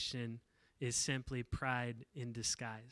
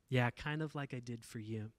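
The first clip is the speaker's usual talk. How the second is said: gentle reply. Retold or imitated. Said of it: "the Spirit communicated to her".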